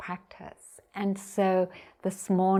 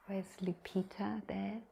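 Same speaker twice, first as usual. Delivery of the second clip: much softer, half-whispered aside; quiet aside; 3 semitones higher, 10 dB quieter than usual. Real, not acted. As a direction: drop your voice to check on someone. Quiet aside during the talk.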